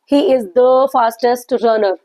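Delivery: each word laid out slowly for students; slow example reading. Shown as a demonstration. Teacher reading an example sentence slowly to students. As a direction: read it out slowly, like dictation. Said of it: "teacher reading an example slowly".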